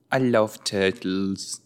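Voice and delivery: slow, drawn-out attempt at Australian; attempted Australian accent. Shown as a demonstration. Viewer trying out an Australian line about turtles, attempted Australian accent. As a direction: try an Australian accent, stretching the words. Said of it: "I'm trying to do an Australian".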